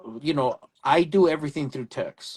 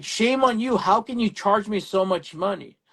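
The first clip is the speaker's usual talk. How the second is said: mock angry customer; 6 semitones higher than usual. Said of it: "she was pissed".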